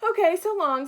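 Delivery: bright high farewell, loud and bouncy; cheery loud so long; cheerful. Acted. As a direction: sing out a happy goodbye. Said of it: "said Rosie cheerfully".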